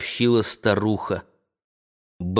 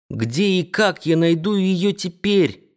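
ordinary delivery, nothing marked

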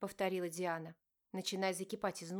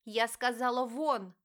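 louder, pressing down tears; holding back tears; 3 semitones higher, 7 dB louder, slower than usual. A narrator's reading. Diana orders father out, holding back tears. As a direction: shout them out while fighting tears. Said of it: "повторила девушка, сдерживая слёзы".

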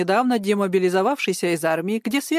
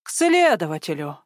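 gasping surprise; 3 semitones lower than usual. Acted. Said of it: "ахнул сержант".

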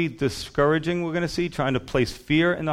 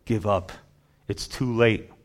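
Satan whispering; 4 dB quieter than usual. Acted. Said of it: "And Satan's whispering to you".

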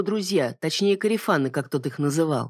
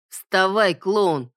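harsh order; 3 semitones higher, much slower than usual. A narrator's reading. Bully barks at victim.

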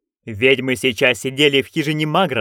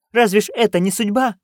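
excited; 6 semitones higher than usual. Acted. Magrat pleading, continues exclaiming.

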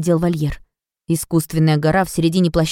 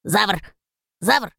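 creaky voice; 3 semitones higher than usual. A narrator's reading. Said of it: "заскрипел Драго".

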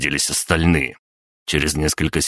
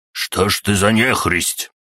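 медленно, с гневом, выше; процеди с укором; гневное осуждение; 5 semitones higher than usual. Acted. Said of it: "гневно процедил Степаныч". (Степаныч гневно процеживает)

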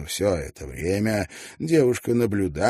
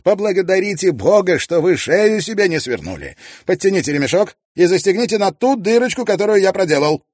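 brisk, higher, louder voice of a confident gentleman; Tietjens voiced; 11 semitones higher, 8 dB louder, faster than usual. Tietjens advising Mrs Wannop on her cart, brisk and confident. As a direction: rattle off the practical advice with assurance.

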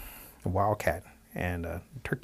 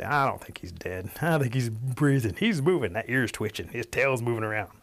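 suspicious turkeys; 3 semitones higher than usual. Acted. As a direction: voice growing suspicion, stretching the early words. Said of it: "So they're all suspicious".

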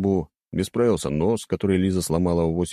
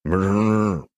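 wolf growl. A narrator's reading. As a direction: growl like huge wolves. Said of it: "прорычали огромные волки".

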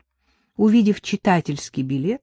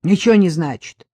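snapped; 4 dB louder than usual. Acted. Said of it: "огрызнулся сержант".

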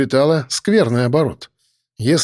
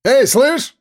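calling out; 11 semitones higher, 3 dB louder than usual. Acted. Gunman calling out.

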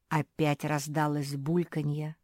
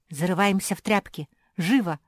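commanding; 3 semitones higher, 6 dB louder than usual. A narrator's reading. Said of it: "велела Зефирка".

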